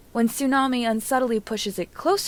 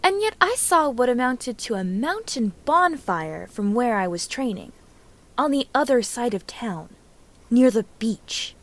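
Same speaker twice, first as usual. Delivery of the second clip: a sharp retort building louder; 3 semitones higher, 3 dB louder than usual. Acted. Sakura retorting to Naruto, pointed and teasing. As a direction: jab back at him with the words. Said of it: "Sakura retorted".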